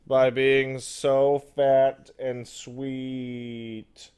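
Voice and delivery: cooing over the cat, very slow; doting cat voice. Real, not acted. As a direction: gush over the fat sweet cat, drawn out.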